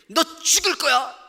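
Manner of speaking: loud, high hammed-up threat; Jezebel's threat. Pastor voicing Jezebel threatening Elijah, loud mock menace. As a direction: spit out a queen's death threat. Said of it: "이세벨이".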